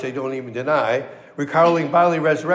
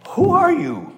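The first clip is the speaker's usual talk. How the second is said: questioning Sadducees; 13 semitones higher than usual. Acted. Sadducees questioning John, acted.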